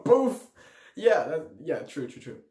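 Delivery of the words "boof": loud, high burst; imitated boom. Storyteller mimics midnight countdown fireworks, imitated boom. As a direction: pop it out like a firework.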